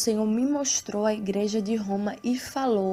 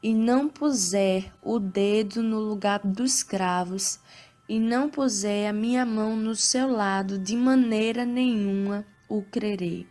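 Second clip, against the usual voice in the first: scripture reading. Acted. Reads Bible passage aloud.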